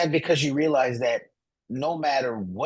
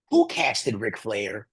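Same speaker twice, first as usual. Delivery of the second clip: slow incredulous; 6 semitones lower, much slower than usual. Pretend. Mock outrage at casting choice.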